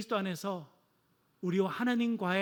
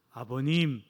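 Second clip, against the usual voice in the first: stiff formal address; 5 semitones lower, slower than usual. Shown as a demonstration. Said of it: "이렇게 하고 가서 달려가서 안긴다".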